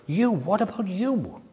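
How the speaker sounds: "you" stretched out and leaned on, slowly; stress on YOU. Shown as a demonstration. Preacher shows the question falls on the individual, emphatic "you". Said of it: "the emphasis is upon the individual".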